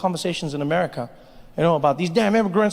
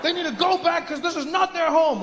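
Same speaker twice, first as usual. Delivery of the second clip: mock nativist; 8 semitones higher than usual. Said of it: "People confidently saying".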